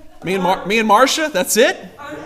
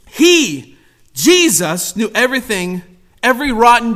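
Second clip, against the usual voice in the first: ordinary talk, nothing marked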